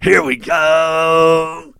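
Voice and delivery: very slow, drawn-out shouted snap call; quarterback cadence shout. Retold or imitated. Host mocking Dak Prescott's cadence with a drawn-out shout. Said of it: "That's their cadence".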